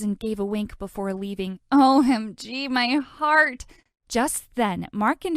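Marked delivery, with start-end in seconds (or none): 1.7-3.7 swooning. Acted. Swooning after wink.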